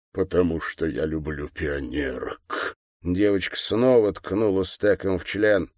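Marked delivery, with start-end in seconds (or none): 0.1-2.7 meek governor. A narrator's reading. Governor confesses meekly.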